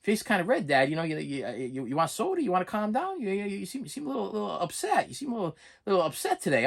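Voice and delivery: a hint of a concerned son; son's gentle concern. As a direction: softly check if dad is upset. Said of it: "my son goes".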